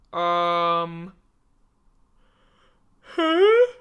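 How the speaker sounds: mock disbelief at the stats; baffled huh. Looking at the stats, a loud baffled huh. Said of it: "they're like".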